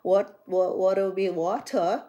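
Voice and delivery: playful imitation of an English accent; mock British accent. Shown as a demonstration. Showing off a favorite accent to listeners, imitation British. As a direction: put on a British accent, drawing out "water". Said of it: "I love English black, uh, accent".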